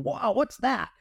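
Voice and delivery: high-pitched retold wonder; intrigued. Airman hearing the commander's condition, intrigued wonder. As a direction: ask it with piqued curiosity. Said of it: "which made my ears tingle".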